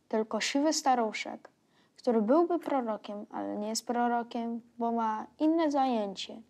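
measured poetry reading, phrase by phrase; poem recitation. Acted. Young reader reciting Miłosz's poem about the world's end, recitation. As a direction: recite the verse line by line with small pauses.

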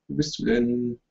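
high and quiet, almost sung; high soft singsong. Real, not acted. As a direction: call it sweetly upward. Searching for friend in Skype. (hoch und leise gesungen)

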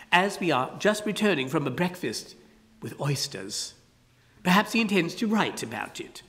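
a hint of a genial old walrus; easy, pompous walrus charm; lightly voiced walrus. Walrus explains the carpenter to Ada, lightly voiced.

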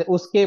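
उसके with the weight on के; stress on के. Shown as a demonstration. Teacher shows stress on के in उसके. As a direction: lean on के in उसके. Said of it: "के पर स्ट्रेस दे रहे हैं ना हम".

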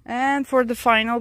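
out of breath from the heat. Real, not acted. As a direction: talk while out of breath. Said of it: "you can hear I'm out of breath".

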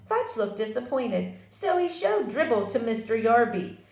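lively read-aloud for a fourth grade class; story narration. A narrator's reading. Teacher reading a chapter book to her fourth graders, animated. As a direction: tell the story to the kids, brightly.

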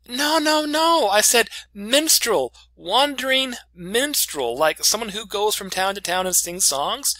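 high, loud, panicked correction; frantic protest. Retold or imitated. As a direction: rush to clear up a terrible misunderstanding. Frantic correction of boss's misunderstanding.

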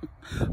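brief soft chuckle; quick quiet laugh; small laugh. Real, not acted. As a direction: let out a little chuckle. Small laugh between fun instructions.

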